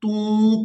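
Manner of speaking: तू with a plain पेश, not ताऊ; correct short vowel. Shown as a demonstration. Teacher correcting a common student mistake, careful. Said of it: "ता वाव दो पेश तू".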